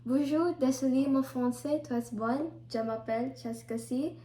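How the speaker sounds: beginner French with English accent; careful learner's French, English-accented; foreign accent in french. Shown as a demonstration. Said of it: "My accent's kinda".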